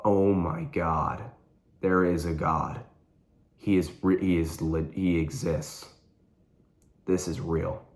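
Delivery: retold weeping. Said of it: "just crying".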